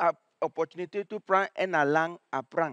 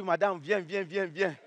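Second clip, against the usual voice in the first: soft pleading; 3 semitones lower, 6 dB quieter than usual. Retold or imitated. Pleading to the teacher.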